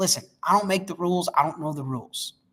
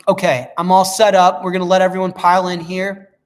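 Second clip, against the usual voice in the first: announcer voice; 8 dB louder than usual. Acted. Loud host announcement.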